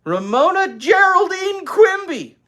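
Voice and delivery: high, loud, slow with Geraldine stressed; full name stress. Shown as a demonstration. Narrator relishing the full middle name. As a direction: savor Geraldine slowly. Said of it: "Isn't that a great middle name".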